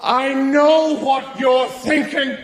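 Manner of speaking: slow, loud, smug and drawn out; mock all-knowing tone; knowing smugness. Shown as a demonstration. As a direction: say it like you can read minds. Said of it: "My favorite one is".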